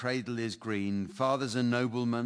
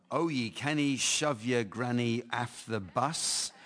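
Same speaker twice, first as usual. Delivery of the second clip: put-on Scottish accent. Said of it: "my Scottish accent is too thick".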